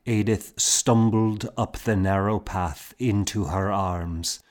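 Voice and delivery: usual speaking voice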